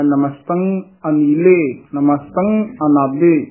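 slow "ਅਨੀਲੇ", "ਅਨਾਦੇ" with distinct first a; clear enunciation. Shown as a demonstration. Teacher asks for it to be spoken clearly, careful enunciation. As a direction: separate "ਨਮਸਤੰ" from the next word. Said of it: "ਸਪਸ਼ਟ ਕਰਕੇ ਬੋਲਣਾ ਹੈ".

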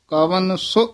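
ਸੋ said su, short, with ਔਂਕੜ; short u vowel in ਸੋ, not o. Shown as a demonstration. Teacher showing students the right short ਸੋ. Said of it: "ਇਹ ਪਦ ਔਂਕੜ ਦੇ ਨਾਲ ਹੀ ਬੋਲਣਾ".

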